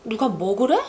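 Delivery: 먹으래 stressed and rising at the end; light 누가, weight on 먹으래 as a yes-no question. Shown as a demonstration. Teacher showing the "anyone" meaning, stress on 먹으래. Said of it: "if the emphasis is placed on the 먹으래".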